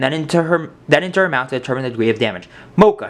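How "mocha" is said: high, loud surprised cry; girl tasting the mousse, surprised; surprised call. A narrator's reading. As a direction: blurt it out in surprise. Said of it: "she called out in surprise".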